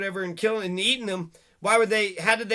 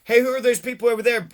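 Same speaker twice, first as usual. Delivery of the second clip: mock alarmed call; 3 semitones higher, 6 dB louder, faster than usual. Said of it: "It's like".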